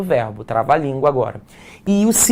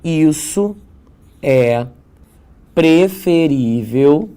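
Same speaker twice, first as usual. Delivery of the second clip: each word set apart, preferível drawn out slowly; slow stressed example; 3 dB louder, much slower than usual. Shown as a demonstration. Teacher reading the board example slowly, word by word. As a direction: read "Isso é preferível" word by word with pauses. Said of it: "vou colocar aqui o exemplo pra você perceber".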